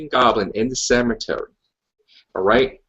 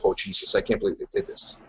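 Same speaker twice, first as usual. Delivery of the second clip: muted dismay; 5 semitones lower, 8 dB quieter than usual. Retold or imitated. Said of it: "I'm like".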